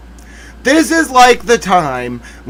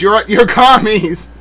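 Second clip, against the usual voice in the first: mock angry; 3 semitones higher, 3 dB louder, slower than usual. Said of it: "That's my erudite analysis".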